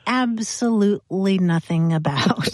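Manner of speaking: orate it like a pseudo-sophisticated speechmaker; mock-pompous oration. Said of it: "this sort of pseudo-sophisticated speech".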